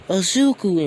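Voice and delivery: high, loud cry of his name; excited cry. Retold or imitated. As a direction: call out his name in joyful surprise. Mom cries out son's name.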